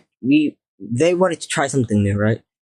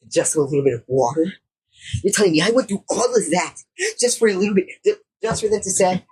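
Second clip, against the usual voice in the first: higher-pitched, incredulous complaint; indignant; 5 semitones higher, faster than usual. Real, not acted. Kid griping to viewers about all that hassle, indignant. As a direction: protest the wasted effort in a raised pitch. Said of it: "I'm enraged".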